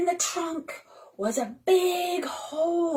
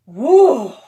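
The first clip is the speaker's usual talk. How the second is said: loud frightened refusal; girl refusing, scared; Annika refusing; 2 semitones lower, 9 dB louder than usual. Acted. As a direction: refuse in alarm. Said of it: "said Annika".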